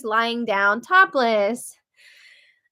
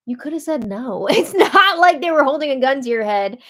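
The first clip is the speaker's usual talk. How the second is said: laughing scoff; 3 semitones higher, 4 dB louder than usual. Real, not acted. Mocking contestant's excuse, laughing.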